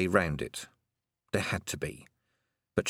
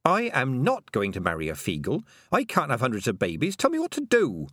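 raised, rising to a high demand; shouting; 4 semitones higher than usual. Acted. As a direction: shout it, getting desperate. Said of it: "I don't like being shouted at".

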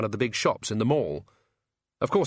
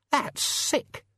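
whispered disgust. A narrator's reading.

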